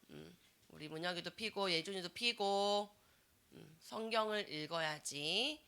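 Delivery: ordinary talk, nothing marked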